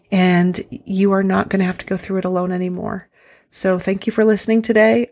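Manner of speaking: breathing heavily into the mic; audible, labored breaths between words; heavy breathing. Real, not acted. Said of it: "I am sorry about the heavy breathing into the microphone".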